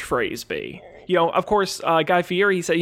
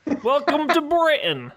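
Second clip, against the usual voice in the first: bad British accent turning Australian; 9 semitones higher than usual. Shown as a demonstration. Co-host showing his accent problem, British gone Australian. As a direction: attempt British and slip into Australian. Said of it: "I just default to Australian".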